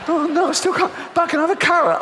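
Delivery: high, laughing panicked whine, slowing at the end; desperate fat shopper. Retold or imitated. Comedian playing fat shoppers stuck at the door, in a high panicked whine. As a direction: squeal it, stuck at the door and frantic. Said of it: "they go back".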